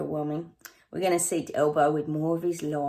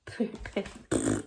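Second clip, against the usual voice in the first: tongue-tied splutter; 4 dB quieter than usual. Real, not acted. Tongue-tied, then starts again.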